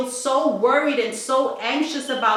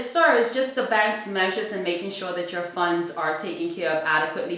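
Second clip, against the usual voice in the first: phone voice; 5 semitones lower, 3 dB quieter, faster than usual. Retold or imitated. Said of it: "I have a nice phone voice".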